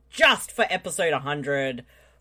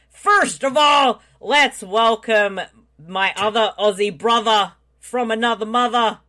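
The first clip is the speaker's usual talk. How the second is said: announcer hype; 3 semitones higher, 3 dB louder than usual. Real, not acted. Host introducing the Aussie co-host, shouted announcer-style. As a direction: call it out like a ring announcer.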